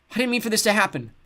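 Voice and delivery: high, teary whimper. A narrator's reading. Seth crying to his sister, whimpering. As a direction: plead it through tears. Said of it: "he whimpered".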